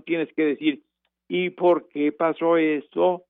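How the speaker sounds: lightly voiced mother correcting a child's reading aloud; a hint of a patient mother teaching punctuation; mother coaching reading. Mother guiding her son through reading aloud, gently instructive. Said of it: "Mi mamá, doña Eloísa".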